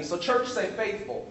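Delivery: "faithful" as a prompt for the church; call to repeat. Shown as a demonstration. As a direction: cue the congregation to say "faithful". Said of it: "I want to emphasize the word".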